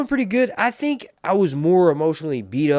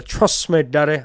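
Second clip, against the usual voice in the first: Shane Gill catchphrase; 2 semitones higher, 6 dB louder than usual. Retold or imitated. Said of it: "I got that from Shane Gill".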